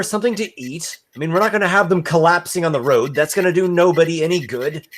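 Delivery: high-pitched wife taking charge quickly; Hannah's voice. Acted. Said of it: "Hannah looks at him and she says".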